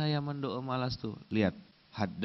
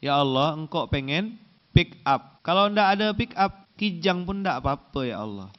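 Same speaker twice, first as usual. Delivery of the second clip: mock prayer; 4 dB louder than usual. Shown as a demonstration. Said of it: "Coba dengarkan doanya".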